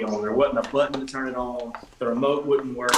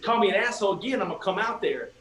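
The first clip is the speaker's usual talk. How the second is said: higher-pitched mock challenge; retold threat; 7 semitones higher than usual. Front desk clerk threatening the guest, retold challenge. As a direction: dare them, as if retelling a quarrel.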